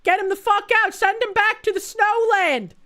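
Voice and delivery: playful over-the-top demand; mock outraged yell. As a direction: bellow it like a fake patriot. Streamer mock outrage at deportee.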